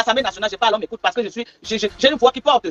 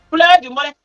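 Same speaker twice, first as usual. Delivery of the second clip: "Pleure du mbolet" higher, louder, mocking cry; mocking whine; 5 semitones higher, 4 dB louder, slower than usual. Real, not acted. Vlogger jeering at rivals now crying, higher and louder. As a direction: jeer it out like a taunt.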